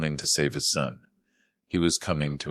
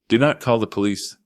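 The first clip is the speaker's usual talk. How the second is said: smooth fixer's authority; 6 semitones higher, 5 dB louder than usual. Acted. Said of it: "smooth, authoritative tone of a fixer".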